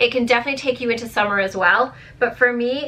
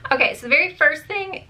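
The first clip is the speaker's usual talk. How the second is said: voice cracking; 7 semitones higher than usual. Real, not acted. Beauty vlogger's voice cracks as she starts her first product, voice breaking. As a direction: voice breaks mid-phrase. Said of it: "did you guys just hear my voice break?".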